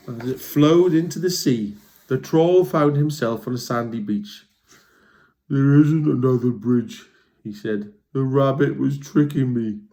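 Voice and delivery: lively storybook read-aloud; reading to children. A narrator's reading. Reading a troll story to young listeners, lively. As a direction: tell it like bedtime to kids. Reads a picture book aloud.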